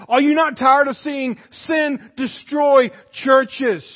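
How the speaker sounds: rising preached shout. Real, not acted. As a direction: preach it harder the second time. Preacher repeats question, building.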